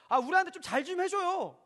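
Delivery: acted demanding child's appeal; entitled plea. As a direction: whine for better treatment as if it's owed. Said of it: "라고 얘기하는 게".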